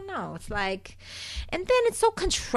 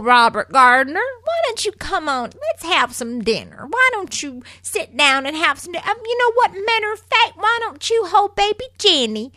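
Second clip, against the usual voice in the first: sugary fake sweetness; 9 semitones higher than usual. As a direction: pour on the fake charm, much higher. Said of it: "And she's like".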